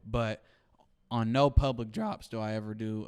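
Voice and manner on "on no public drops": voice crack. Real, not acted. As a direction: voice cracks mid-sentence. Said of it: "and sorry for the voice crack".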